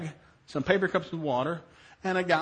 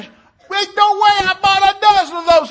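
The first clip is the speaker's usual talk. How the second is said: high, drawn-out mock-outraged yell; loud disbelief; 15 dB louder, slower than usual. Dad answering his daughter about the hairspray, incredulous. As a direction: protest at full volume.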